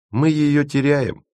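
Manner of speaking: high, slow, drawn-out pronouncement; with conviction. A narrator's reading. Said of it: "убеждённо произнёс Леденец".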